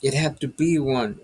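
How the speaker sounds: a hint of a Spanish-accented sergeant; heavy Spanish accent. Sergeant explains to the priests in a Spanish accent. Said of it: "in a heavy Spanish accent".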